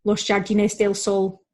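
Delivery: Jardines with a J as in English "jam"; slow mispronounced Jardines with English J. Retold or imitated. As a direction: imitate an English speaker's Spanish, anglicised Jardines. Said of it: "hearing an English-speaking person saying".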